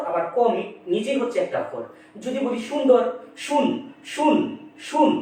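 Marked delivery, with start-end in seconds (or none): 3.4-5.1 শুন said alone as one beat, clipped off; syllable split out. Shown as a demonstration. Teacher splitting সুন্দর into syllables, শুন said alone. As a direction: isolate শুন as a separate syllable. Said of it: "এখানে শুন হচ্ছে একটা অক্ষর".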